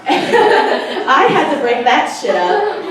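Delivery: slow, laughing through the words. Real, not acted. Telling the crowd about the fight, laughing slowly. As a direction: chuckle it out slowly.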